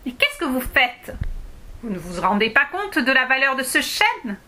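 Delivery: high, loud little dwarf scolding; an indignant tiny dwarf yelling about his oak; dwarf shouting. Acted. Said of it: "cria le nain".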